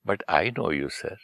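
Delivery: soft, gentle reply, fading at the end; lovingly. Retold or imitated. Man answering the annoyed VIP at a function, softly and lovingly. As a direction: answer an irritated VIP with quiet kindness. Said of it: "मैंने उसको बड़े प्यार से बोला".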